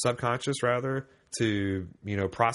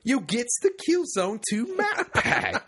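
bad jolly British accent; 5 semitones higher than usual. Host reading listener's letter, bad jolly British accent. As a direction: put on a badly faked jolly British voice, laughter creeping in. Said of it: "he asked for the jolly British accent".

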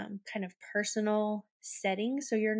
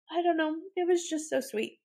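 choked up; 7 semitones higher than usual. Real, not acted. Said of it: "I'm crying".

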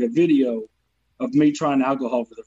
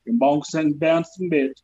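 Louisiana accent; slower than usual. Shown as a demonstration. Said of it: "with a Southern accent".

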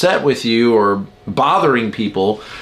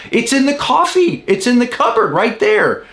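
much higher, insistent retort; exasperated wife; 10 semitones higher than usual. Retold or imitated. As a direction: protest in a high, exasperated imitation. Acting wife in mug quarrel.

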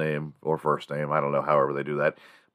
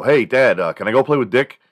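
put-on high, louder eager kid asking; innocent kid; 7 semitones higher, 8 dB louder than usual. Boy asking his dad to play, eager and higher.

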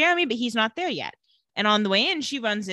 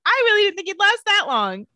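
higher, louder mocking Catherine voice; callous Catherine quip; 10 semitones higher, 5 dB louder than usual. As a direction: toss it off like a heartless vampire. Catherine's callous quip about Trevor.

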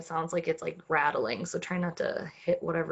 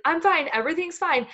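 forced calm; 8 semitones higher, 4 dB louder than usual. Retold or imitated. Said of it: "And he's like".

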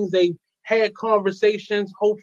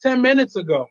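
talking with a retainer in; speech thick around a retainer; wearing a retainer. Real, not acted. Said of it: "I just put my, uh, retainer in".

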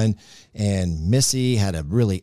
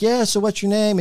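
flirty radio DJ; 10 semitones higher than usual. Retold or imitated. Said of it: "And then I'm like".

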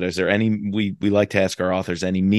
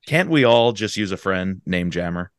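bouncy limerick lilt. Shown as a demonstration. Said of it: "a No Limits Limerick".

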